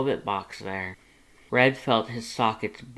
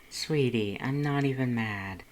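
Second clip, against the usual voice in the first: purred. A narrator's reading. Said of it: "Lust purred".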